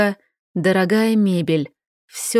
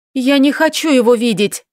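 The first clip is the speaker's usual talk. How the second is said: higher, louder frightened cry of refusal; exclaimed refusal; 4 semitones higher, 3 dB louder than usual. Acted. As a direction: push him away with the voice. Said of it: "воскликнула я". (испуганный возглас)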